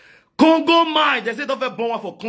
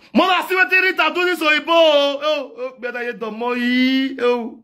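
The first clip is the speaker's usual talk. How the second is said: shouted gossip; 8 semitones higher than usual. Acted. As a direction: yell it out across the compound.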